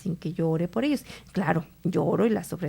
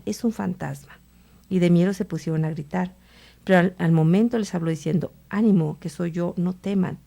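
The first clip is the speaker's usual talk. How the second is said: gospel reading. Acted. Priest reads the gospel aloud.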